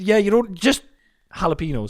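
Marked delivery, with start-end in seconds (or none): 1.3-1.9 "jalapenos" with a plain H sound; H, not J. Shown as a demonstration. Correcting the J version, plainly pronounced H. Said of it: "it's a H, not a J".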